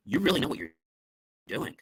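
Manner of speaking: sincere praise, falling away at the end. Shown as a demonstration. Speaker demonstrating praise to a listener, sincere. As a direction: say it as honest praise. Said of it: "Now that sounds sincere".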